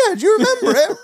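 lightly voiced eager self; own eager reply. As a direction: egg him on. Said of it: "I was like".

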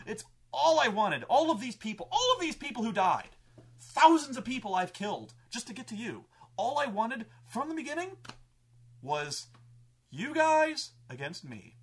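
high, loud, impassioned villain tirade; acted shouting monologue; villain's rant. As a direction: rage it out, high and loud, stretching key words. Villain rants at the heroes.

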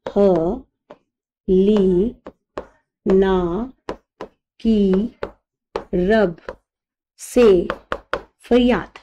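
each syllable apart with long pauses; dictating to students word by word. Shown as a demonstration. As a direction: spell it out one word at a time. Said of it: "मैं बहुत आराम से बोल रही हूँ".

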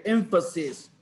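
"Emphasis" with the stress on the first syllable; noun pronunciation. Shown as a demonstration. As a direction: say "Emphasis" with the weight at the start, as a noun. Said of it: "it's the noun".

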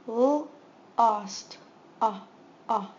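segment by segment, loud sounds; sounding out lost. Shown as a demonstration. Teacher sounding out a word for students, loud and segmented. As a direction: blend L, ost, then stretch ah. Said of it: "That makes the short O sound".

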